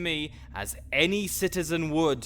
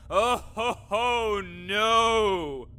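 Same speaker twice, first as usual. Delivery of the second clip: mock laugh then refusal; 5 semitones higher, much slower than usual. Necromancer rejecting the villain label, scornful. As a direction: laugh off the accusation, then slam it.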